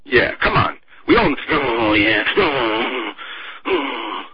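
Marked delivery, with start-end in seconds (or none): 1.5-4.2 mock lustful moaning. Mocking hawks' pleasure.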